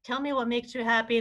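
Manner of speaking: normal talking voice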